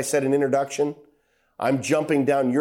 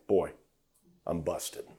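caught out; 8 semitones lower, 9 dB quieter than usual. Acted. David caught out.

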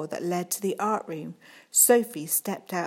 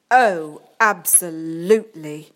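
louder, eager oh absolutely; smitten agreement; 9 dB louder than usual. Acted. Head teacher gushes to Miss Waters, loud and eager. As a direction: gush your agreement.

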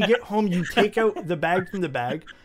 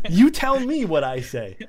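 slow, loud, emphatic retort; real exasperation; 3 semitones higher, 6 dB louder, slower than usual. Real, not acted. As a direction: hand the question back, fed up. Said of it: "drives me up the walls".

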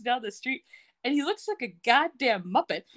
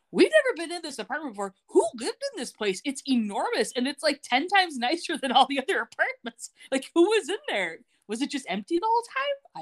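higher, fast puzzled questions; incredulous; 6 semitones higher than usual. Real, not acted. Host puzzling over a huge apartment, incredulous. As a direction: marvel at the huge flat.

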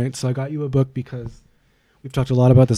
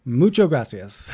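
mock Spanish greeting; 10 semitones higher, much slower than usual. Silly holiday greeting.

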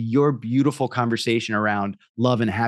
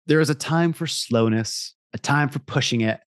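ad voiceover. Acted. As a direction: sell it like a liquor ad. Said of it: "I'll read that again".

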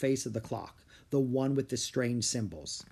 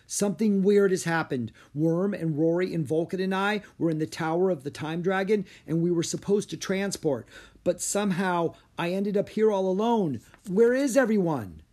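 high, worried explaining; urgent outcry; 6 semitones higher, 3 dB louder than usual. A narrator's reading. Son telling mother his friends are missing, crying out. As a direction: pour it out, building to a loud plea. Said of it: "Drake cried".

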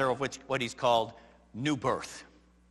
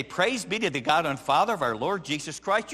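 sarcastic quoting. Pretend. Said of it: "you want me to get up and say".

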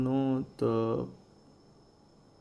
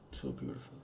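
breathy awe; 11 semitones lower, 12 dB quieter, faster than usual. Real, not acted. Awed at images.

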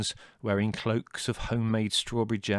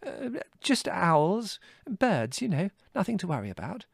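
high, hesitant cover-up; flustered; 13 semitones higher, 4 dB louder than usual. A narrator's reading. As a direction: backpedal nervously in a high voice. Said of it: "Mother, flustered, having realised".

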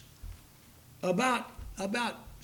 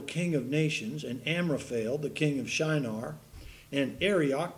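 steady, measured Bible reading; scripture reading; 2 semitones lower than usual. Acted. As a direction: read the chapter out to the congregation. Reads Genesis fourteen aloud.

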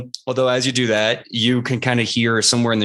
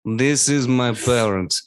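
Professor Marrow. Acted. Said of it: "And he goes".

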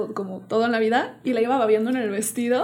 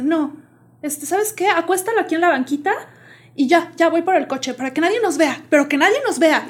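conspiring mother; 5 semitones higher, 3 dB louder than usual. Retold or imitated. Imitating mother plotting to hide drunk.

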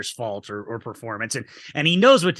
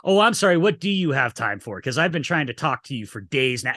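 sarcastic retort. Retold or imitated. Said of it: "just the way she delivers".

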